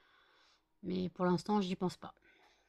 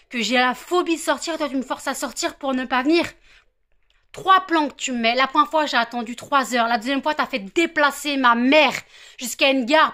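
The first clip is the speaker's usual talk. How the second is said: heated, raised-voice rant; real anger; 5 dB louder than usual. Real, not acted. The vlogger berates the friend who never came, angrily. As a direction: still venting, louder than usual. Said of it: "Je suis énervée comme pas possible".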